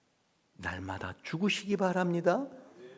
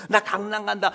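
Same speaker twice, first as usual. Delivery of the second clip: higher, airy reply; cheeky quail; 6 semitones higher, 3 dB louder than usual. Acted. A stray quail telling the others where it's going. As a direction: toss the answer back lightly.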